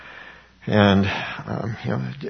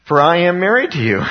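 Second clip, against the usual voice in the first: emphatic scripture; 6 semitones higher, 5 dB louder than usual. Acted. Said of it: "says the Lord".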